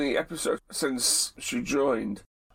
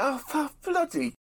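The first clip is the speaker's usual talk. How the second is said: exasperated common; 11 semitones higher than usual. Retold or imitated. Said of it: "thick and common".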